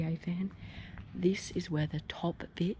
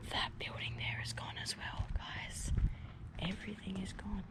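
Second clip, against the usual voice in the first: nervous night vlog whisper. Real, not acted.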